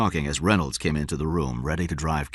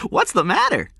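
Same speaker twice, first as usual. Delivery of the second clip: put-on puzzled boy, high and loud; child wondering at the fuss; surprised; 5 dB louder than usual. A narrator's reading. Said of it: "he said, surprised".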